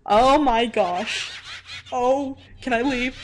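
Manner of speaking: laughing. Real, not acted. Laughing at scary Flowey.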